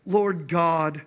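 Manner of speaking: low-pitched plea to God, played for laughs; mock desperate prayer. Trapped believer praying in a strip club, mock-desperate. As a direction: pray under pressure, pitched low.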